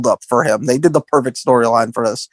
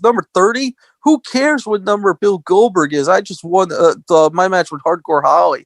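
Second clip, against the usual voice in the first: mock Lesnar; 4 semitones higher than usual. Lesnar mocking Goldberg's number.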